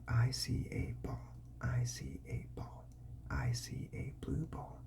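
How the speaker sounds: soft patient drill voice; modelling for a child. Shown as a demonstration. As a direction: repeat the sentence for a toddler. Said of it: "Now you just say".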